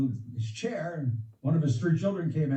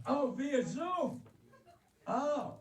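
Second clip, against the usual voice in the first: slow realization; 9 semitones higher, 4 dB quieter, much slower than usual. Real, not acted. Finally understands the question.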